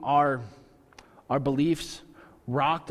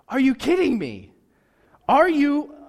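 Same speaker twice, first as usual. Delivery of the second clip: exasperated outburst; 9 semitones higher, 6 dB louder than usual. Retold or imitated. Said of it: "I would be like".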